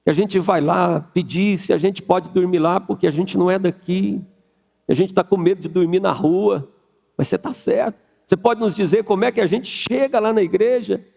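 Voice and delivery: humble begging plea; pleading traveller. Acted. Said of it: "Súplica".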